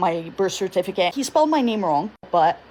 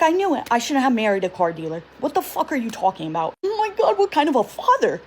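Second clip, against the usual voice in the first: mom yelling. Retold or imitated. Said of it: "So my mom starts yelling at him".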